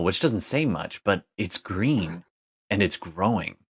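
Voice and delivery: measured descriptive narration with suspenseful pauses; game master scene-setting. Acted. Game master revealing a green ruin in hell, scene-setting narration. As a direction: paint the scene phrase by phrase, leaning on key words.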